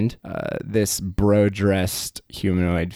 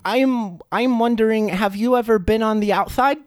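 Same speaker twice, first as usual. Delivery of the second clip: very high, cheery squeak; squeaky fish creature; 13 semitones higher than usual. Acted. Fish creature greeting its bro friend, very high squeaky voice. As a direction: greet your buddy in a tiny high voice.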